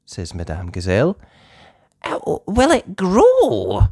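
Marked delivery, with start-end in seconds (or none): 2.0-3.9 whispered question. Acted. Susie asks a question.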